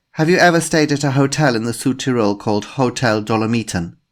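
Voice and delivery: put-on a polite inspector with a faint German accent; slight German accent. A narrator's reading. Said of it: "a woman with a slight German accent".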